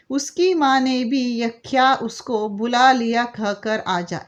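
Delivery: put-on slow, measured reading of a children's poem; poem recitation. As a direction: recite it slowly, line by line, for the children. (बच्चों के लिए धीमे स्वर में कविता पाठ)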